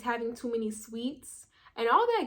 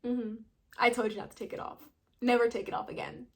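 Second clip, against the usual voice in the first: smiling. Retold or imitated. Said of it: "she was just smiling like".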